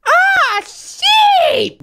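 sudden high yelp at the sheep; surprised shout. Real, not acted. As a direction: blurt it out, startled and delighted.

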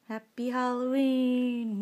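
loud slow spooky greeting. Acted. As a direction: boom it out like a ghoul. Spooky Halloween greeting to camera.

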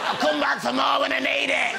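playful imitation of the woman; mock offhand woman. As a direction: toss it off like leaving a tool. Woman leaving robot in shed.

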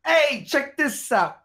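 put-on high, slow Jewish accent. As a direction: drag it out in a showy Jewish accent. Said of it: "That's my Jewish accent".

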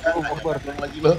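jumpy startled yelp. Real, not acted. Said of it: "kaget gua".

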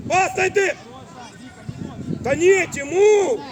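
loud call to a player; shouted correction. Real, not acted. Coach correcting a player during play, loud shout. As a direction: shout the correction across the pitch.

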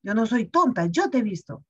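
stern telling-off. Retold or imitated. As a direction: speak with full authority. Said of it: "con más autoridad".

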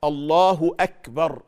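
loud, slow "أكبر" with a released, breathy k; aspirated kaf. Shown as a demonstration. Teacher modelling correct takbir, loud with clear k release in "أكبر". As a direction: draw out "الله", then puff the ك of "أكبر". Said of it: "إذا كان الهمس يخرج في الكاف".

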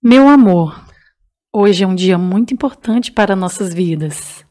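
a hint of a sultry romantic reader; sensual voice. Shown as a demonstration. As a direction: read it low and seductive. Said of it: "uma voz sensual, vai".

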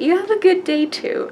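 squeaky starstruck parting words; giddy high goodbye. Retold or imitated. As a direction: sing it out, overwhelmed with glee. Starstruck fan saying goodbye.

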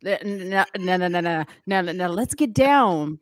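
lightly voiced Liddell, hyped coach chant; a hint of Liddell running the meeting; Liddell impression. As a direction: rattle off names like Liddell in a meeting. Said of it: "my impersonation".

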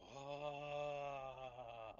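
long, soft, drawn-out "ah"; awed gasp. Acted. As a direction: breathe out a slow sigh of wonder. Kobold's awe at gold coins.

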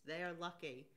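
ordinary delivery

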